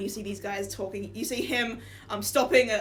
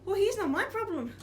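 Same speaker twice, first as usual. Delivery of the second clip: higher, offhand shrug of a voice; dismissive guard; 10 semitones higher, 3 dB louder than usual. Acted. Guard Sven shrugs off the player, dismissive. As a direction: brush it off like a bored guard. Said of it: "Sven just looks at you and goes".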